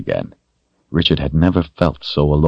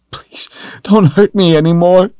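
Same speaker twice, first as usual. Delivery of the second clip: frightened whispered plea, much higher; crying plea; 5 dB louder than usual. Acted. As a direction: beg breathlessly in a whisper, pained and terrified. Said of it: "he cried".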